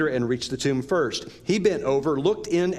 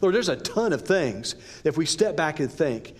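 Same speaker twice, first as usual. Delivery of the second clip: earnest spoken prayer to God; 2 semitones higher than usual. Real, not acted. Pastor leading the church in prayer, earnest. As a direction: pray it sincerely, addressing the Father.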